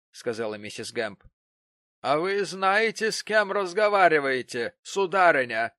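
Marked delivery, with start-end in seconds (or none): 2.0-5.7 haughty challenge. Acted. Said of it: "спросила гостья".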